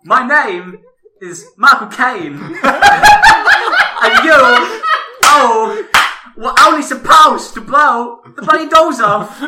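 loud, slow, high mock Dutch Michael Caine; shouting in a garbled Dutch-like accent; bastardized Dutch accent. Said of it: "it sounds like bastardized Dutch".

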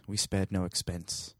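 put-on slow, soft British Attenborough accent try; a quiet, slowed Attenborough accent, barely there; Attenborough accent retry. Host retrying his Attenborough line, a faint British accent. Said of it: "It was a little better".

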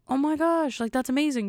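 high, thrilled oh my gosh; high excited gushing. Retold or imitated. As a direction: gush with delight. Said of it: "And I was like".

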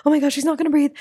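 the nervous system losing it; freaking out. Pretend. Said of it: "your nervous system freaking out".

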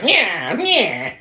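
high, jeering mock taunt; taunting Fritz. Fritz teasing the monster with a torch, high jeering. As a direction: jab at someone with each high cry. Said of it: "He's like".

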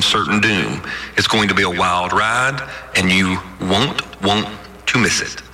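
low, calm captain's cabin announcement; airline pilot announcement. Pretend. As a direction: read it like a pilot over the intercom. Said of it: "I need a computer voice ... It's also my airline captain voice".

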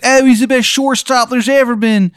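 high, whiny falsetto; dying Steve. Acted. GM voicing Steve praising a shortstop while dying, high whine. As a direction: gush in a squeaky pained voice. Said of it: "He goes".

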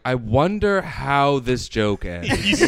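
slow puzzled musing. Retold or imitated. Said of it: "I said out loud, like".

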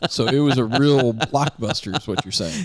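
slow, drawn-out sarcasm on "real blockbuster"; dry dig, dragging out the words; sarcastic. Real, not acted. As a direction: tease with mock-impressed sarcasm. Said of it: "Sarcasm, sarcasm".

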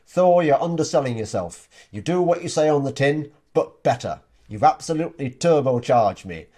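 put-on light Yorkshire accent reading a client quote; a hint of broad Yorkshire. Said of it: "I hope you like my Yorkshire accent there".

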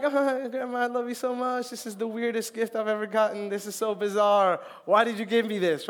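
mock sweet confusion over a weird gift; lightly hammed-up fake delight; mock gushing thanks. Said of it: "And I'm just like".

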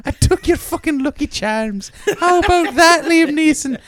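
very high, loud gloating leprechaun voice; taunting leprechaun. Pretend. Lucky Charms leprechaun taunting Liam Neeson, high and gloating. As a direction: taunt him like a giddy leprechaun.

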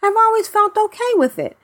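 measured reading from a written letter; email read-out. Real, not acted. Podcast host reading a listener's email, reading aloud.

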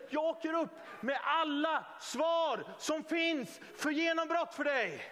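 slow, emphatic preacher's proclamation as Jesus; triumphant Jesus. Acted. Jesus calls out his triumph over the devil, slow proclamation. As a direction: proclaim it slowly, word by word.

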